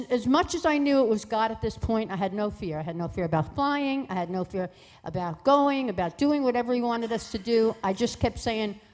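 ordinary delivery

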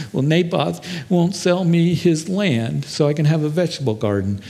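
lightly mock the sniveling complaint; whining Ahab. King answering his wife, mildly mock whining. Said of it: "he's whining, he's complaining".

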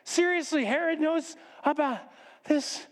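high-pitched dismay; horrified disbelief. Acted. Host learns that Herod knows, horrified.

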